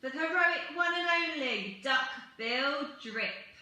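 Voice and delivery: high, loud celebratory hurrah; hooted cheer. A narrator's reading. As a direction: lead a triumphant cheer. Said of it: "They hooted".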